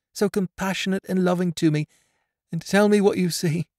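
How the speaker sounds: put-on high girl's voice, urgent and tender; begging her friend to be honest; pleading blind girl. A narrator's reading.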